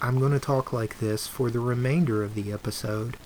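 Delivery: soft, calm public radio host; PBS voice. Shown as a demonstration. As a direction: speak like a mellow PBS host. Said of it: "I think I'm gonna call it my P B S voice".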